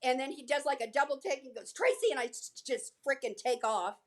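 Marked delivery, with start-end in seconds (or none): 1.7-2.1 high mock call of a name; retold yell. Co-star spots her after a double take, mock yell. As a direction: call it out in a half-voiced yell. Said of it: "chases me down the corridor and yells".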